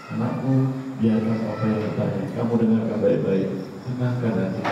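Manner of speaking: calm him down gently; wise father. Acted. Father gently advises his son to calm his heart. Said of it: "bapaknya cukup mendalam itu".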